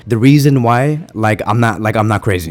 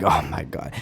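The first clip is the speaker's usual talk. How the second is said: stunned murmur; 7 semitones lower, 11 dB quieter than usual. Retold or imitated. Disbelief at La Liga president.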